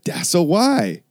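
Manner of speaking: high, knowing mock-guru tone; mock guru line. Quoting the guru's answer again, high mock-guru line. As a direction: repeat it like a smug punchline. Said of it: "And then I said".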